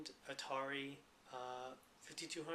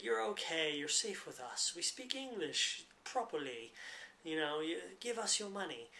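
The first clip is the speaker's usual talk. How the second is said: mock British accent; 3 semitones higher, 3 dB louder than usual. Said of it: "the British accent is used to create a sense of trust".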